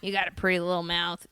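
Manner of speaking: a rugged Ozark-style Southern voice; rugged Southern accent. Retold or imitated. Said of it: "I like that kind of accent".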